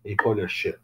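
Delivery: softly, as an aside; whispered aside. Shown as a demonstration. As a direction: whisper it, the ch barely there. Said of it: "je tape juste quand je dis blanc".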